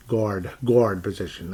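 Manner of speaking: slow New York "guard", open vowel. Shown as a demonstration. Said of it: "That's, that's New York".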